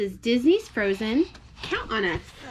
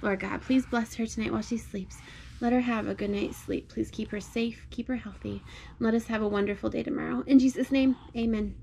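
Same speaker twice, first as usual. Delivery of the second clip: bedtime prayer. Real, not acted.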